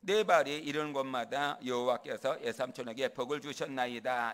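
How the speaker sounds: loud, emphatic scriptural declaration. Acted. Jacob talking big to his uncle Laban, loud and bold. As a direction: declare it forcefully, as a boast. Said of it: "야곱이 저 큰 소리 한번 칩니다".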